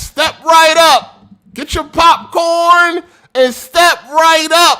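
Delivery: loud, slow, high barker shout; mock circus barker calling the crowd; carnival barker. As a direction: hawk it like a ringmaster.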